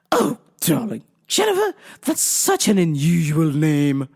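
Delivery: lightly affected English darling; mock-English caller's polite remark; phony English accent. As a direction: put on a fake English gush. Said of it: "phony English accent".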